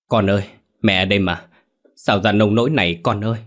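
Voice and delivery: put-on keen over the dead child; understated wailing lament; mother's lament. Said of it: "nấc lên không thành tiếng".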